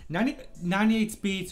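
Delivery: hiccup breaks the words. Real, not acted. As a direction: talk through a hiccup. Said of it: "sorry about that".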